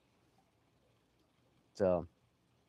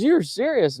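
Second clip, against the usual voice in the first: high, louder incredulous question; retold disbelief; 12 semitones higher, 5 dB louder than usual. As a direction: imitate an astonished coworker.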